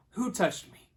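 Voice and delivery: loud, high repeated question; insistent demand. Retold or imitated. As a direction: call it out over a crowd. Jesus repeats his question, louder.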